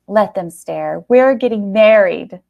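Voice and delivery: joyful shout down the street. A narrator's reading. Eleanor to the staring shoppers, a joyful shout. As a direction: shout it for everyone to hear. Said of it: "she shouted".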